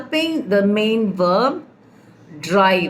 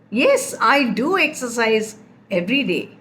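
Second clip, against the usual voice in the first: firm "yes", then emphasis on "do"; "do" stressed to insist. Shown as a demonstration. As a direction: answer a doubter, leaning on "do". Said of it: "Do is used when you are stressing".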